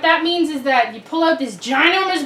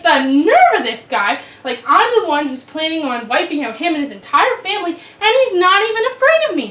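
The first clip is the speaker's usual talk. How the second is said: furious Haman; 3 semitones higher, 5 dB louder than usual. Acted. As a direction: fume with outrage at the gatekeeper. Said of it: "And Haman's furious".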